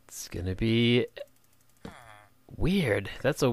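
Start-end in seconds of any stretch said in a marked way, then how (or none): 0.1-1.1 unvoiced whisper. Whispering his catchphrase to viewers, unvoiced whisper. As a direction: breathe it like a secret. Mock secretive whisper aside.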